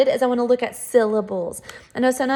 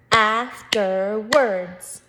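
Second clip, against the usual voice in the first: Afterwards drawn out in three separate chunks; syllable by syllable; much slower than usual. Shown as a demonstration. Teacher demonstrating syllables to first graders, slow and chunked. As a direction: say Afterwards very slowly, AF, TER, WARDS. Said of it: "Three syllables".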